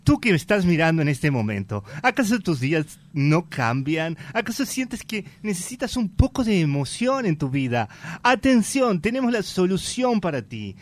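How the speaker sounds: punchy commercial announcer read. Acted. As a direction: sell it like a TV spot. Acts out a TV commercial.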